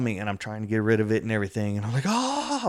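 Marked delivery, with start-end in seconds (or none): 2.1-2.7 retold freak-out. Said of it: "I'm freaking out".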